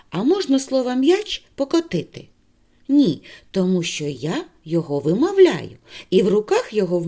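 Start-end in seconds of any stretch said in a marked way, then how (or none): 0.1-2.3 rising high on «м'яч», playful trick question; lightly mock-surprised teacher. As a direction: tease the kids with a silly question.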